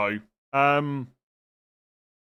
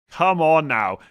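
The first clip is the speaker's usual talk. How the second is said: louder, higher exasperated repeat; exasperated disbelief; 4 semitones higher, 8 dB louder, slower than usual. Real, not acted. Host scolding a viewer over benching Gabriel, exasperated disbelief. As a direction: push it out loud, incredulous.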